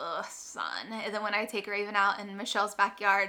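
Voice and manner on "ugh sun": fed-up, annoyed, grumbling groan. Retelling own reaction to sunny drives: retelling an annoyed groan. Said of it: "and I'm like".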